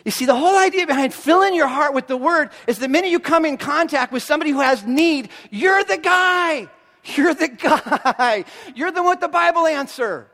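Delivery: high, emphatic rallying call; fired-up preaching. Real, not acted. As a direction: drive it home to the crowd, stretching key words. Preacher exhorting the crowd forcefully.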